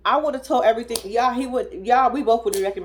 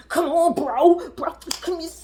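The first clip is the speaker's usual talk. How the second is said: mock buddy greeting; 6 semitones higher than usual. Mimicking the woman greeting him.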